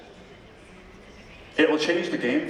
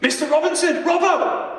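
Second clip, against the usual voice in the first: much higher, louder shouts for help; retold cries for help; 10 semitones higher, 3 dB louder, slower than usual. Friend trapped under the raft crying to the teacher, shouting. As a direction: call out desperately from the water. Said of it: "he was shouting".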